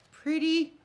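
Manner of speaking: high, loud squeal of delight. Real, not acted. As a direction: squeal "Pretty" like you just fell in love with it. Admiring finished flower piece.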